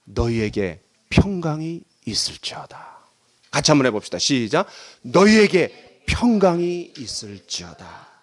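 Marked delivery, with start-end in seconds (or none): 0.0-3.0 low, slow pronouncement of peace; unhurried, tender scripture quote; gentle solemn blessing. Acted. Reads Jesus' greeting solemnly. 5.0-8.1 very slow, measured recitation for others to follow; slow, drawn-out scripture line; recited blessing. Shown as a demonstration. Models verse for congregation.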